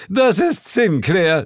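loud, high, slow shout; yelled. A narrator's reading. Devil yelling to his wife who it is, agitated. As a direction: scream the name out. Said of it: "schrie der Teufel".

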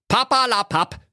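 very high, cartoonish bear with a Berlin twang; a lost, grumbling Berlin bear, voiced high and comic; squeaky bear talking Berlin slang. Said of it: "rief da der Berliner Bär".

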